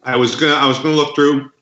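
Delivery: talking while chewing; words round a bite of candy; mouth full. Real, not acted. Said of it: "I'm eating a candy bar while we talk".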